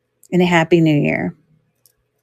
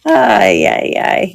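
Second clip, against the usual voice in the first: crying with laughter; slower than usual. Real, not acted. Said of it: "Yes, I'm crying".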